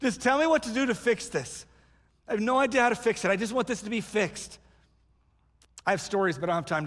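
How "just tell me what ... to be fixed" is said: higher, hurried acted plea; urgent pleading. Someone with no idea how to fix it, pleading. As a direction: press desperately for an answer, half-acted. Acts out desperate wish to fix.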